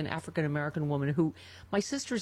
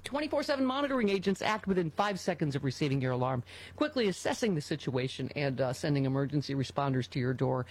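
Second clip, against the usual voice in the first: ad read; 3 semitones lower than usual. Real, not acted.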